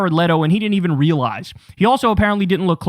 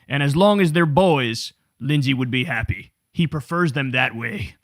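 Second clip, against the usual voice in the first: lower, oily flatterer; mock groveling, lower; sycophant voice; 4 semitones lower than usual. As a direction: fawn over the president, low and syrupy. Mocking Lindsey's flattery.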